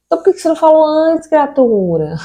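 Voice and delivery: high, fast, indignant comeback; exasperated retort. Acted. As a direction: fire it back at the contractor. Retorting to the contractor.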